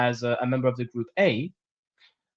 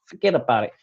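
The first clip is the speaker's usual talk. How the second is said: put-on East Coast accent; faster than usual. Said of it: "Sorry, my accents aren't great".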